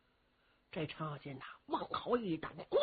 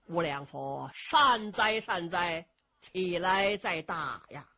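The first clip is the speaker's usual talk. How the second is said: put-on calm old priest; 2 semitones lower, slower than usual. Old Taoist speaks calmly.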